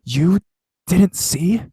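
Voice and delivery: halting, high-pitched question with a mild upset; stumbling, tearful. A narrator's reading. Crying friend stumbling to ask sister, halting high voice. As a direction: break it up with a pause, voice rising. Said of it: "stumbling over her words".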